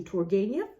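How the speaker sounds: Turgenev anglicised; English pronunciation. Shown as a demonstration. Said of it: "the English pronunciation".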